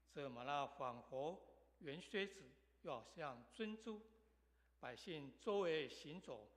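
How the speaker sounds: measured, emphatic public Bible reading; formal read-aloud with firm stresses and pauses; scripture reading. Acted. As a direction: proclaim the passage to a congregation, phrase by phrase. Reads scripture aloud to congregation.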